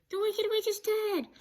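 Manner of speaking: high loud triumphant shout; joyful shout. Acted. Dorothy outside, telling the people of the West, shouts loud and high. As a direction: shout the news out to everyone.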